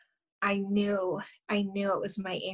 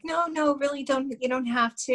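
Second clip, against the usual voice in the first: higher-pitched, retold refusal of a favour; polite protest; 4 semitones higher than usual. Declining his offer to pay.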